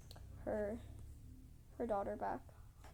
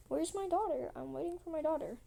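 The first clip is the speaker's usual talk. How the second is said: higher-pitched, insistent queen; demanding queen; 5 semitones higher, faster than usual. Retold or imitated. Queen asking after her missing daughter, demanding.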